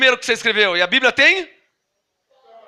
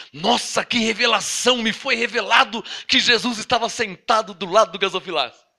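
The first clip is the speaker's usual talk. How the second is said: mock awe; 2 semitones lower, 3 dB quieter than usual. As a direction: pretend amazement at a revelation. Mock reaction to a supposed revelation. (espanto fingido)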